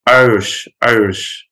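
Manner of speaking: Northern Irish "Irish", the I flattened away; Northern Irish accent. Shown as a demonstration. Showing students the unspoken I, Northern Irish accent. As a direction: say "Irish" like "Arish", Northern Irish style. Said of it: "So the I is not mentioned".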